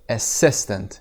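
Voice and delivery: "Assistant" with weight on SIS; stress on SIS. Shown as a demonstration. Teacher shows students the stressed SIS in "Assistant". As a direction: lean on the second syllable of "Assistant". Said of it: "استرس روی سس هست".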